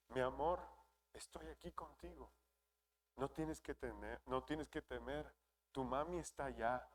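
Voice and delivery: soft, hushed words to a newborn; tender soothing. Retold or imitated. Father reassuring his newborn son in the hospital, soft and tender. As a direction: comfort a crying baby gently and quietly.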